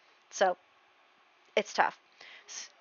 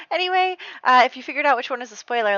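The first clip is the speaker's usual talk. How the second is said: amused; 6 semitones higher, 10 dB louder, faster than usual. Real, not acted. Recovering from laughing at own slip.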